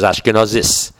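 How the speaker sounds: "Ashkenazis" with a rounded aw and final s; Ashkenazi pronunciation. Shown as a demonstration. Teacher showing how they pronounce Hebrew, "Ashkenazis" in Ashkenazi pronunciation. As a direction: say "Ashkenazis" as Ashke-NAW-sis. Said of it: "They'll pronounce words like".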